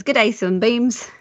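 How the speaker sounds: rough, half-hearted Australian greeting; attempted Australian accent. Shown as a demonstration. Co-host reading a listener's greeting on request, attempted Australian accent. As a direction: have a slow go at an Australian accent. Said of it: "if you could do an Australian accent".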